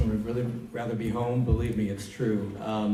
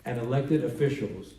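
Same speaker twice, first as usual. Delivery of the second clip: measured, deliberate public statement; formal read-aloud with weighted key words; 2 semitones higher than usual. Real, not acted. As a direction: read it out firmly, pausing between phrases. Reads a congressman's statement aloud.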